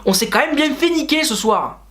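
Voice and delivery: lightly put-on Marseille accent; a touch of Marseille accent on an aggrieved fan's quote. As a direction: imitate a Monaco fan with a joking Marseille accent. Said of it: "j'ai pris l'accent marseillais".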